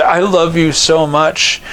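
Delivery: slow, earnest declaration; mean every word, slowly; sincere. Shown as a demonstration. Wife answering her husband, slow and sincere. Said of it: "Or she could say".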